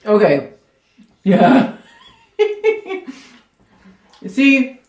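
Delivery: normal talking voice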